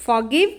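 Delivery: forgive, its r left unspoken; silent r in forgive. Shown as a demonstration. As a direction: say forgive without sounding the r. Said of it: "Forgive में भी र silent है". (forgive में र की आवाज़ नहीं)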